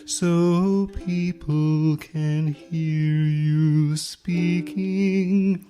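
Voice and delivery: drawn-out vintage broadcaster voice; 1950s tone. Shown as a demonstration. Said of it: "that's my nineteen fifties tone".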